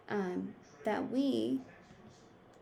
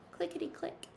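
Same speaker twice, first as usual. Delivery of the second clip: whispered demo; 6 dB quieter, faster than usual. Shown as a demonstration. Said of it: "you might hear".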